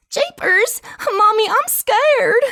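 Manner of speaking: put-on a frightened small child calling to mommy; child to mother, terrified; scared child.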